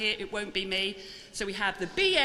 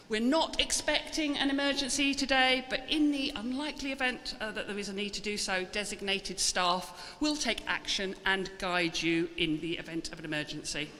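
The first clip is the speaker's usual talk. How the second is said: lightly voiced cabin crew safety talk; air hostess impression. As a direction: announce the exits like a flight attendant. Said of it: "I'm gonna do my best, uh, air hostess, uh, impression now".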